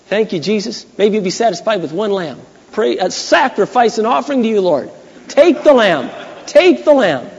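a half-hearted plea to give up the lamb; mock scared prayer. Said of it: "what we'd probably do".

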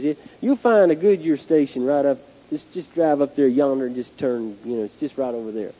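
lightly imitated Southern patrolman; low, folksy directions in a mild Southern accent. Patrolman directing the driver to a tire shop, light Southern accent. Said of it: "in his southern accent".

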